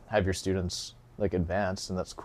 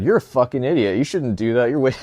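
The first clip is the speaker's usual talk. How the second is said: loud, higher fake-angry rant; mock angry insult; 4 semitones higher, 6 dB louder than usual. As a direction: bark it like a fake troll comment. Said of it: "no, I'm just kidding".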